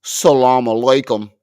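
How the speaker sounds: put-on loud, flat "Salam alaikum" with no accent; imitating a flat American "Salam alaikum"; mocking his way. Mocking the clip's man to friends, flat loud greeting. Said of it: "said it like that".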